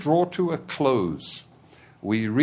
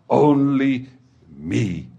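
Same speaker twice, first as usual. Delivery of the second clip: selfish son; 5 dB louder, slower than usual. Acted.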